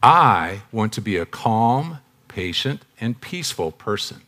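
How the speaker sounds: slow, deliberate calm, softening after the first phrase; calm, patient. Shown as a demonstration. Speaker repeating his phrase to the room, calm and deliberate. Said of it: "I wanna say that phrase again".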